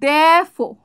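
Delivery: Therefore said "dh-eh-fo", r dropped; therefore demo. Shown as a demonstration. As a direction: swallow the r in Therefore, "defo". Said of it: "ইটাকে আমরা গিলে ফেলবো".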